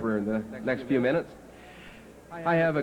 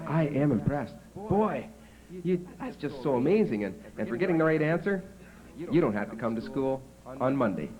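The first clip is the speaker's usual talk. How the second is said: impressed teacher; 3 semitones higher than usual. Retold or imitated. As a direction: marvel at the pupil. Teacher praising second pupil.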